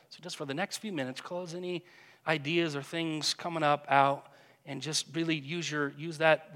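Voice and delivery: soothing guided imagery voice; guided meditation. Acted. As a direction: lead them gently into the scene. Opens a guided imaginative prayer.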